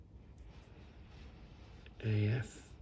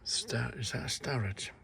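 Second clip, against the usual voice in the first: hushed question to himself; whispered, peering closely; 7 dB quieter than usual. Real, not acted. Collector quizzing himself about a tool, whispering.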